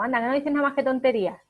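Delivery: quick, brushing-off scold from mother to son; mother dismissing her son's chatter, quick and scornful; dismissive parent. Retold or imitated. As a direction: rattle it off as a mother belittling her child. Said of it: "Si le digo cosas como".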